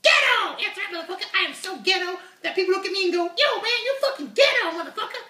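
swaggering high puppet voice; brash puppet unicorn. Acted. Puppet voice Uni continues.

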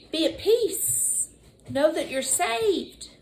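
slow and gentle. Acted. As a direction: soothe the listener. Soft reassuring slow lines.

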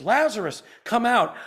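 Jesus calling out. Acted. Preacher quoting Jesus summoning Lazarus from the tomb, calling out. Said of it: "called out in a loud voice".

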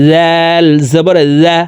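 জাল said thin and light; thin letter. Shown as a demonstration. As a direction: keep জাল light, not heavy like জ. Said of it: "জাল হরফ পাতলাভাবে উচ্চারণ করতে হবে".

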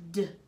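"dog" sounded out slowly as D-O-G; stretching sounds. Shown as a demonstration. Teacher stretching out a word for spellers. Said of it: "Write the sounds that you hear".

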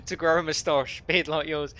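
lightly put-on impression of a nagging wife. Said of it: "sure you sound way better than my impression".

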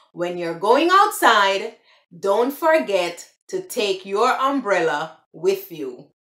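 plain standard English. Shown as a demonstration. Repeating the proper English version, standard English. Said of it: "the proper way would".

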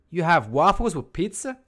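hammed-up disbelief with a rising end; mock outraged viewer. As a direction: play the appalled fan who can't believe it. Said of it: "You're gonna be like".

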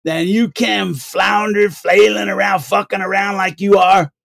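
lightly voiced old wino, boasting and scolding; old wino dude. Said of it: "And he goes".

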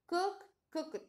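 high "Cook", then "cooked" ending in T; final T sound. Shown as a demonstration. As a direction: contrast "Cook" with "cooked" said as cookt. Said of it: "pronunciamos la T".

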